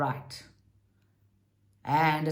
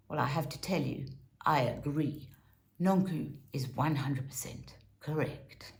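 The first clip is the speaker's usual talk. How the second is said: whisper; 5 semitones lower, 7 dB quieter than usual. Real, not acted. Confiding agreement to viewers.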